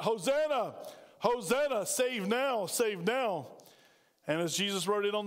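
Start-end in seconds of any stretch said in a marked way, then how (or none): 0.0-3.5 mild mock shout, a little raised; half-hearted imitation of a crowd's cry; retold crowd shout. Preacher retelling the Palm Sunday crowd's cheer, mildly shouted. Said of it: "when the people shouted".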